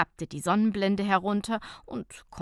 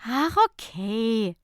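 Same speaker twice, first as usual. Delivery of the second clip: smiling; 3 semitones higher, 4 dB louder, slower than usual. Acted. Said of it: "mit einem Lächeln".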